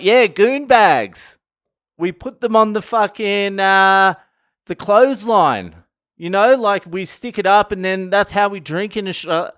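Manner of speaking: imitating the girlfriend. Aussie girlfriend explaining goon bags to the tour guide, mocking and high. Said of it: "She's like".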